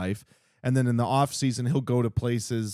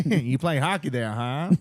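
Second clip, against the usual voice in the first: laughing Brooklyn voice. Pretend. Keeps up the Brooklyn bit.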